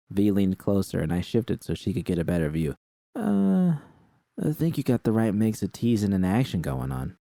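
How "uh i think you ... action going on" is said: lightly voiced V, higher; a hint of a higher V voice; V's higher voice. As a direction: nudge the pitch up for V. V voiced by narrator.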